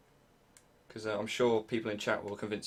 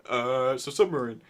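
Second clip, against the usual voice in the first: sheepish excuse; 5 dB louder than usual. Retold or imitated. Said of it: "It's like".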